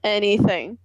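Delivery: breathy whispered answer. Real, not acted. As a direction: whisper it back. Whispered teasing reply.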